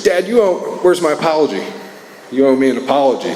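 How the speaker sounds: high, insistent imitation of a kid; demanding child. Son demanding an apology from his dad, imitated indignant whine.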